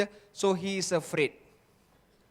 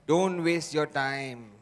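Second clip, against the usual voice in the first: voice of doubt; 4 semitones lower, slower than usual. Retold or imitated. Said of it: "what did the voice say?".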